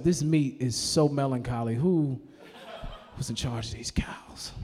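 slow, sinking into a hushed whisper; melancholy musing. Acted. Diner mourning a sad hamburger, slow whisper. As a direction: mourn the meat, trailing into a whisper. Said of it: "said to myself".

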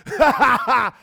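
loud fake laughter; ha-ha right in his face; loud mocking laugh at a serious moment. Acting someone laughing at him.

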